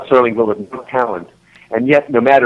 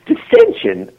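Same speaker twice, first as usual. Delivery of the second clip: hammed-up genteel Southern dismay; Southern patois; 2 semitones higher, slower than usual. Friend playing offended at a scolding, mock Southern voice. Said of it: "of our southern patois".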